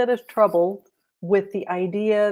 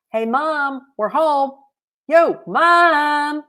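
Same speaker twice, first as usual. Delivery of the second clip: high, loud call into the house; child calling for mom; 10 semitones higher, 7 dB louder, much slower than usual. A narrator's reading.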